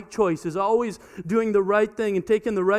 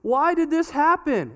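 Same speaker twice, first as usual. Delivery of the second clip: parent scolding; 8 semitones higher, slower than usual. Retold or imitated. Parents scolding their daughter, raised exasperated voice. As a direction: demand an answer from Izzy. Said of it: "and it's always like".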